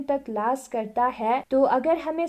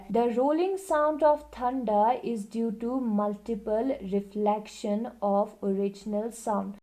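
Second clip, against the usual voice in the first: reading the book aloud, very slowly and evenly; slow classroom read-aloud; slow textbook reading; much slower than usual. Acted. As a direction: dictate it word by word to the class. Reads textbook line aloud.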